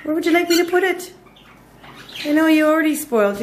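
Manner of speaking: high, quick pet talk; talking to a pet bird. Real, not acted. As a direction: chatter to the bird sweetly. Talking to her cockatiels.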